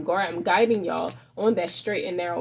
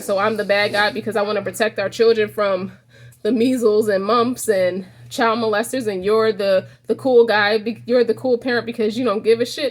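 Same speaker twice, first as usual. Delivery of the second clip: mock-angry complaint growing louder; a wife venting, voice climbing louder; getting mad; 4 dB louder than usual. Wife accusing husband of being the cool parent, louder mock anger. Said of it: "She was getting mad".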